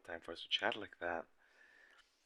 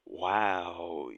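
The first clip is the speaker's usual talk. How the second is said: a louder, amazed wow; surprised wow; 3 semitones lower, 7 dB louder than usual. Real, not acted. Hearing the test confession, surprised wow. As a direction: react to the news out loud.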